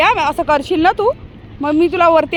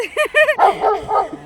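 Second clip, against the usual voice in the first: high giggling laugh; a burst of high laughter; 4 semitones higher than usual. Real, not acted. Owner amused by barking dog, high laugh.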